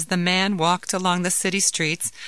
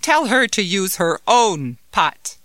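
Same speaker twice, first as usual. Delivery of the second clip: insistent; 2 semitones higher, 5 dB louder than usual. Acted. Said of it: "insisted the man".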